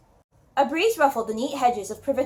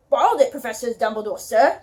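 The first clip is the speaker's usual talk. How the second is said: a lightly voiced West Country giant in a British accent; an amateur British accent for the big gamekeeper; British accent as Hagrid; 3 dB louder than usual. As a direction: speak as Hagrid with a gentle attempt at a British accent. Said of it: "my British accents".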